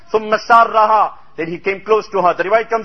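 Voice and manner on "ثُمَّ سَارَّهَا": fast Arabic recitation. Real, not acted. Hadith quoted in Arabic.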